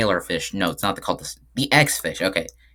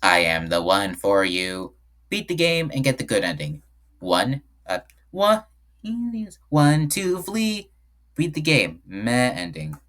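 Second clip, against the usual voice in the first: slow, sung-out hype voice; hype-man DJ voice; 3 semitones higher, slower than usual. Pretend. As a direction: sing it like a hype-man DJ. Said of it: "I gotta sing this in, uh, I think a hype-man DJ voice".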